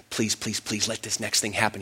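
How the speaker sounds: whispered-style hope while on the phone; quiet pleading. Retold or imitated. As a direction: beg under the breath for luck. Silent hoping prayer to self.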